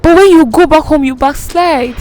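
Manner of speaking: a hint of a preaching man; mimicking the preacher. Man preaches at her from the pulpit, mock sermon. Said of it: "he says".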